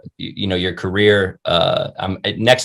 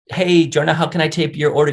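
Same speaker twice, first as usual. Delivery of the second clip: lightly voiced cheery order-taker, pitched higher; friendly server; 6 semitones higher than usual. Chick-fil-A worker welcoming a regular, friendly and higher.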